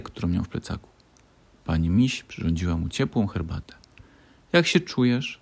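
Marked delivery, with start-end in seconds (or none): 4.5-5.4 concerned. A narrator's reading. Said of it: "spytała z troską Malwinka".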